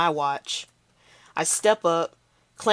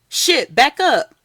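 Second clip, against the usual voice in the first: higher, louder, slow panicked yell; alarmed shout; 8 semitones higher, 9 dB louder, slower than usual. Acted. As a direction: warn everyone in fear. Bystander sees a gun.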